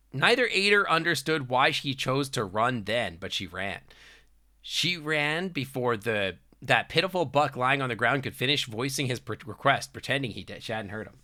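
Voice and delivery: measured storybook reading; story narration. Acted. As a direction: read it out like story prose.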